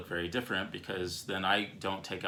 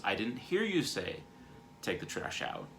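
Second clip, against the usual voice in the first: less intense. Acted. Husband explains he missed the request, less intense. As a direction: ease off the defensiveness and let it drop. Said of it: "a less intense version of that".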